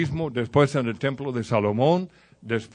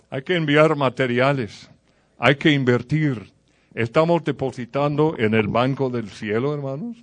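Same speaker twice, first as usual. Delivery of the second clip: exhortación fuerte; 4 dB louder than usual. Real, not acted. Exhortación final del chiste.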